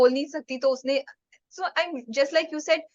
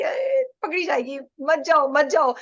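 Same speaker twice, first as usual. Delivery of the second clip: mock anxious pleading; 3 semitones higher than usual. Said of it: "मुझे डर लग रहा था".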